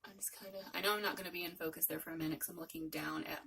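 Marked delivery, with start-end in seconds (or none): 0.0-0.6 whispering. Real, not acted. Murmured to self while applying.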